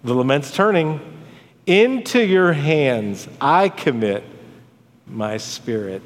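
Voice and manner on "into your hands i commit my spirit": breathing out. Acted. Preacher voicing Christ's last words on the cross, breathed out at the end. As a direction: start firm and slow, let the last words sink like a last breath. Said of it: "He's breathing out into the hands".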